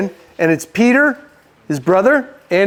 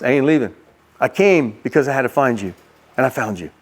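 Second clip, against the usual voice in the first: low, reassuring voice; mildly hushed, steady reassurance; gentle promise; 7 semitones lower than usual. Acted. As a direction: promise it tenderly, dropping lower to the end. Jesus makes tender promise to Peter.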